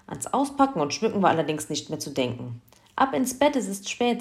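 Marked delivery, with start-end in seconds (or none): 3.0-4.2 higher-pitched, brisk motherly order; energetic command. A narrator's reading. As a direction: send the children off firmly. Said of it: "sagte Mama Heinze energisch". (energisch angeordnet)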